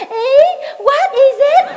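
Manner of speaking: high, loud fake-foreign "what is it"; mock Việt Kiều English. Imitating Tèo pointing at bánh bèo, showy English. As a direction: ham up the show-off returnee. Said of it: "nó".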